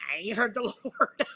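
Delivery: laughing through the line; a laugh breaks in mid-sentence. Retold or imitated. Mocking herself next to little Johnny, laughing.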